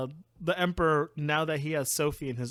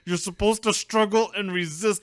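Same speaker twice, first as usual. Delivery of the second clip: loud, mock-angry scolding; mad villain; 3 semitones higher, 6 dB louder than usual. Villain to the too-nice princess, mock mad. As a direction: scold with raised voice and playful anger. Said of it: "he gets so mad".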